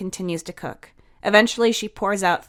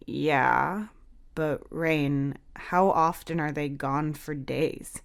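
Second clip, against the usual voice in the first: soft concern; 2 semitones lower, 4 dB quieter, slower than usual. Acted. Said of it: "Heath speaks softly".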